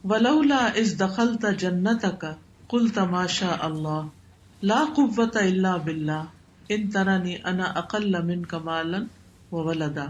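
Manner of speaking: slow, measured Arabic recitation; Quran recitation. Acted. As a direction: recite the verse slowly, phrase by phrase.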